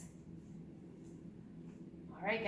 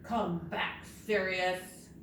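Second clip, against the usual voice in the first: firm, measured call; mock-serious command; really serious; slower than usual. Shown as a demonstration. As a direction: call it back sternly. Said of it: "say it really serious".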